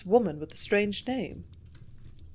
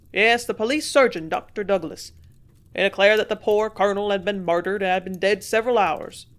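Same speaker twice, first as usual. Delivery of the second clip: loud, eager innkeeper telling all; louder excited landlord voice; gossiping landlord; 7 dB louder than usual. A narrator's reading. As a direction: relish every detail like a village gossip. Landlord continues.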